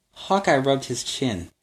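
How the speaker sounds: put-on lively read-aloud for kids; storybook narration. A narrator's reading. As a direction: tell it like a bedtime adventure. Reads story to children.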